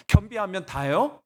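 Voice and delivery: restrained challenge with a rising question; pointed, mildly indignant question; arguing with God. Retold or imitated. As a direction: challenge God, holding back a little. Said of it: "제가 따졌거든요".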